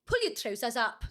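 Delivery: put-on Scottish scolding; Scottish character voice; Scottish accent. Shown as a demonstration. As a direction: give it a comic Scottish accent. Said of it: "do Scottish".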